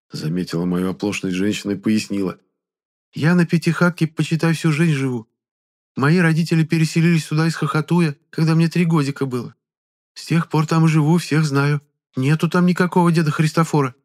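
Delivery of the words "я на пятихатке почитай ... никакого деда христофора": high, chatty village woman; a gossiping villager fussing over him; high village granny reassuring a stranger; old peasant woman. Acted.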